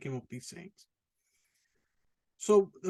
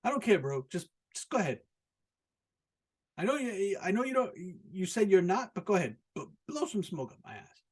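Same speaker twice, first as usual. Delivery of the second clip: mock dare; 4 semitones higher, faster than usual. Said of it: "be like".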